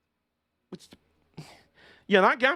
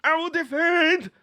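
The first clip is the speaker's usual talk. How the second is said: higher, slow defiant snarl; defiant driver; 8 semitones higher, slower than usual. Retold or imitated. Streamer voicing Butcher defending his spot, defiant slow snarl. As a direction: dig in and refuse to yield. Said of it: "Butcher's like".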